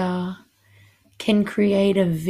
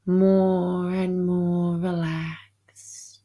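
slow breathy whisper. Acted. Whispered deepening suggestion.

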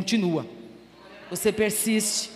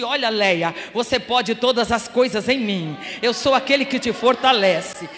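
proclamação forte; 8 dB louder than usual. Acted. Voz de Deus falando a ela.

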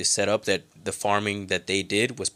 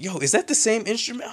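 retold surprise; 13 semitones higher than usual. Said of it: "I was like".

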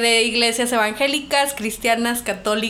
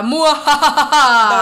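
slow drawn-out evil cackle; villain laugh; 2 semitones higher, 5 dB louder, much slower than usual. Pretend. Evil laugh for Halloween episode.

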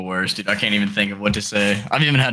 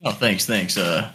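put-on girlfriend's dad voice. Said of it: "let's run more of a real scenario".

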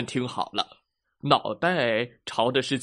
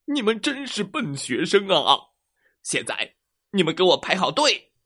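cross bear teacher; 4 semitones higher than usual. Acted. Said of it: "熊老师发火了".

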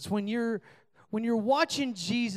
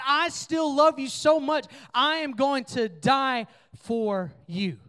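slow, earnest and louder; tender promise; 5 semitones higher, 4 dB louder, slower than usual. Retold or imitated. Jesus telling the students he still loves them, slow and earnest. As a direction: say it like a promise of love. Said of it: "He says".

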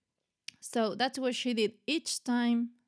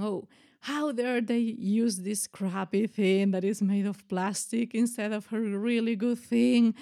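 mildly indignant outburst, retold; louder mock-outraged protest; retold anger; 4 dB louder than usual. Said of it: "I was really angry".

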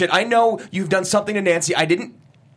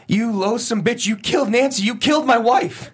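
anguished accusation; 5 semitones higher than usual. Acted. Accusing his wife's killer.

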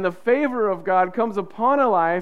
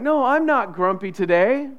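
faked good mood; 3 semitones higher, 3 dB louder than usual. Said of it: "I can't just fake like".

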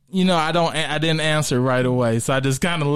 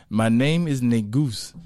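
slow put-on African accent; retold order in a mock African accent; 3 semitones lower than usual. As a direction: give the name in a measured African accent. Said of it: "with my best African accent".

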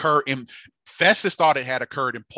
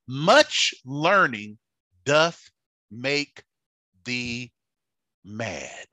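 Festus's loud cry, fading; much slower than usual. Acted. Festus to Paul, loud then fading. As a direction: shout it, then let it die away. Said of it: "And he said".

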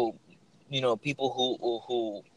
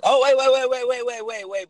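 excited; 11 semitones higher, 7 dB louder than usual. Real, not acted. Cuts himself off to interrupt.

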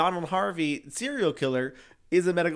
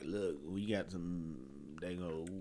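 hick townsfolk voice; 7 semitones lower, 12 dB quieter than usual. Pretend. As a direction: mumble it like a proud small-town yokel. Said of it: "They're probably like".

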